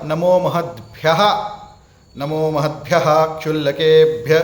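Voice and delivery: नमो महद्भ्यः recited, then a pause before क्षुल्लकेभ्य; break before क्ष. Shown as a demonstration. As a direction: stop after महद्भ्यः and restart on क्ष. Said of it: "तो आपको ध्यान में आएगा".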